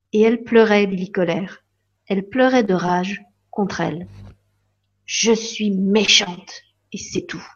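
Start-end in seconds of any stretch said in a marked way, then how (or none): 5.1-7.5 sad refrain. Acted. Lily crying refrain.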